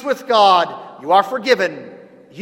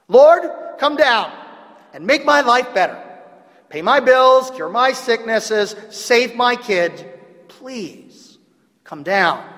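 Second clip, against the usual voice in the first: mock needy prayer, raised and pleading; hammed-up churchgoer begging God for a fix; demanding prayer; 3 semitones higher than usual. Preacher imitates churchgoers demanding God fix their lives. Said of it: "demanding a fix from God".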